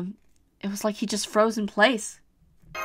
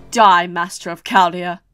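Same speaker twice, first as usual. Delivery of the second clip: slow menacing curse; 3 semitones lower, 5 dB louder than usual. Acted. Giant's slow death sentence.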